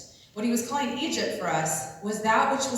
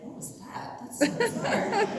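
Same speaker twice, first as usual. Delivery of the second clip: mock surprise. Mock reaction to a mosquito.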